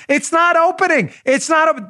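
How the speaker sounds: mock dim-witted whine; clueless idiot. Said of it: "and you're like".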